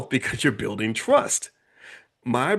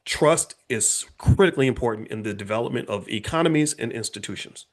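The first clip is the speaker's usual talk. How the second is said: slow, deliberate emphasis; slow down so nothing is glossed over; said slowly. Shown as a demonstration. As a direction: spell it out word by word. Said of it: "I wanna say it slowly".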